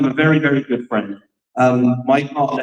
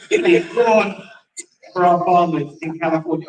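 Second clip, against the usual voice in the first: put-on American "water", pitched up; American accent. Shown as a demonstration. Host mimicking Californians asking for farmers' water, American accent. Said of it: "You gotta say water".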